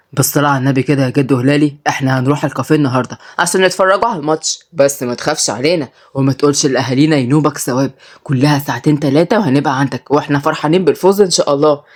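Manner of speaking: a lightly voiced teen coaxing grandpa fast; boy Marwan.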